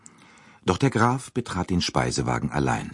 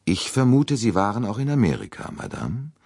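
probing detective; 9 semitones higher than usual. Acted. Poirot probes the old lady.

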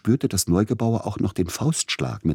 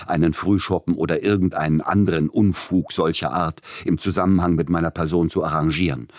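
higher, louder menacing tirade; threatening; 4 semitones higher, 4 dB louder than usual. Acted. Tschaikowski stellt den Agenten drohend zur Rede. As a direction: bear down on him, rising anger. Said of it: "fragte Peter Iljitsch drohend".

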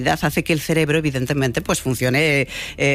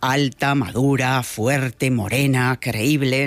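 slightly lowered, measured voice listing traits; deep resonant voice; 2 semitones lower, much slower than usual. Shown as a demonstration. Host illustrating the voice listeners picture as tall and mature, slightly deep. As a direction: lightly put on a grave, resonant voice. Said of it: "cuando la voz es grave y resonante".

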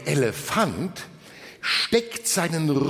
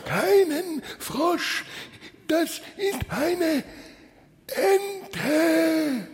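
strained, much higher wolf voice with a frog in the throat; grumbling wolf; 12 semitones higher, slower than usual. A narrator's reading. Wolf denies having a frog in his throat, grumbling. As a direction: grumble it out, each word drawn and pitched up. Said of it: "brummt der Wolf".

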